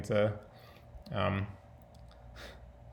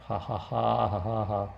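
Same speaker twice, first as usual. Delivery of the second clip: put-on staccato ha-ha laugh; Elon Musk laugh. Vlogger mocking own trolling of a young woman, imitated laugh. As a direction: laugh in deliberate, separate ha's. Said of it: "Is that that Elon Musk laugh?".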